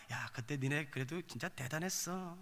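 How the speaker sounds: soft, low, slow admiring voice; tender praise. Acted. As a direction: praise them quietly, like a fond God looking back. Voices God praising his people.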